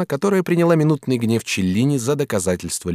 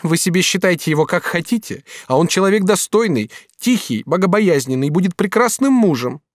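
lighter, higher voice for Katrin; lightly voiced young woman, reproachful; young woman's voice; 9 semitones higher, 4 dB louder than usual. Katrin reproaching the master, lightly voiced woman.

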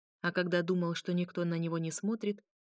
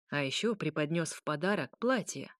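plain reading voice

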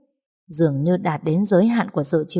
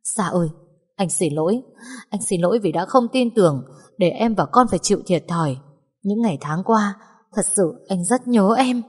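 sobbing apology; 2 semitones higher than usual. Acted. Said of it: "mếu máo".

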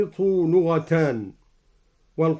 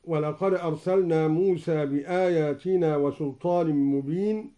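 Quran recitation. Shown as a demonstration. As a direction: recite with measured melody. Recites verse before demo. (تلاوة مجودة)

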